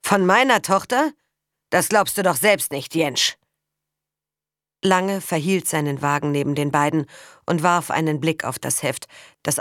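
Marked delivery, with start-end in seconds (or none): 0.0-3.4 loud mocking disbelief; scornful sneer. Father mocking the day labourer's son, scornful sneer. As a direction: sneer the question at him. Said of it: "höhnte Lange".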